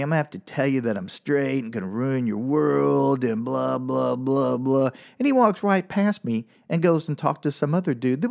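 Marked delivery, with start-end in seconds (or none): 0.0-4.9 monotone mock speech running into blahs; droning brush-off. Comic imagining turning down a guy at bar, droning. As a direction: drone on as if reciting a tired excuse.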